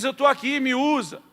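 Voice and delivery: loud, high-pitched offer of oneself; fervent calling out. Acted. Preacher acts out volunteering to God, fervent shout. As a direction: cry out like a keen volunteer.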